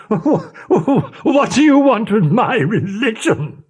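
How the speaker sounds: high, slow, laughing disbelief. A narrator's reading. The captain laughing at the gypsy's wish. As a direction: laugh the question at her. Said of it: "burst out laughing".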